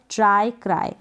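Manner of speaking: "ट्राई, क्राई" ending in a clear eye sound. Shown as a demonstration. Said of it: "वाई को आप आई पढ़ेंगे".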